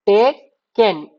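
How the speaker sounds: टेकन drawn out slowly, every sound clear; very slow, deliberate टेकन; slow careful reading. Shown as a demonstration. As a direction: stretch टेकन out syllable by syllable. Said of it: "टेक लिख के एन".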